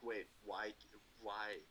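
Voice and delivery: exasperated why, why, why; frustrated protest. Retold or imitated. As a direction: play the confused officer who can't see the trick. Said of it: "officers get very frustrated".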